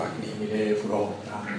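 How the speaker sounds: low, soft imitation of reciting; imitated Vedic recitation. Teacher imitating a visiting brahman, low soft recitation. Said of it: "lo recitaba así".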